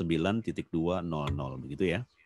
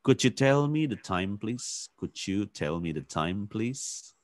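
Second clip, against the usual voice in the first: polite request; 2 semitones higher, slower than usual. Shown as a demonstration. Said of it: "lebih menanyakan dengan kalimat yang lebih sopan".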